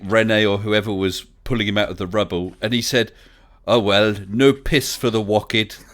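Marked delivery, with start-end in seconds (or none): 3.7-5.8 slow delivery with "piss" and "wocked" as mangled vowels; botched-accent policeman, saying "wocked" for "wicked". Retold or imitated. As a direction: say "piss" and "wocked" slowly, vowels all wrong like a bad linguist. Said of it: "he couldn't speak French properly".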